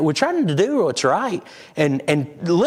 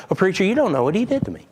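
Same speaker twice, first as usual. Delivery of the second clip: fast, higher pleading whine; mock whiny excuse; 4 semitones higher, much faster than usual. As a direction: rattle off the excuse like a complaining churchgoer. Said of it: "here's our excuse".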